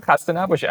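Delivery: Persian phrase said with care; Persian greeting. Shown as a demonstration. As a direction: say khasta naboshid the Persian way. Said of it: "I don't say "dude".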